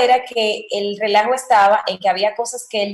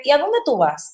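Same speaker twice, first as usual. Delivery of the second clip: higher, falling Dominican question; 4 semitones higher than usual. Retold or imitated. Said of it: "aquí en República Dominicana somos más de".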